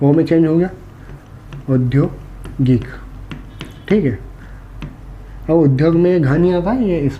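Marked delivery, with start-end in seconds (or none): 1.7-2.9 औद्योगिक drawn out very slowly, syllable by syllable; slow dictation. Shown as a demonstration. Teacher to class, dictating the new word very slowly.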